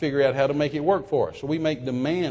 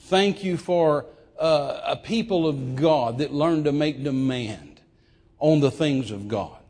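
prayer. Acted. Opening prayer.

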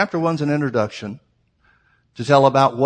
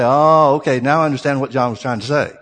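sudden realization; 4 dB louder than usual. Pretend. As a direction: act out finally getting it, opening loud. Acts out future moment of understanding.

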